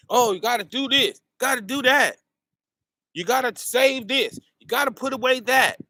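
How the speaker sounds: mocking fearmongers. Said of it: "Everybody's a fearmongerer".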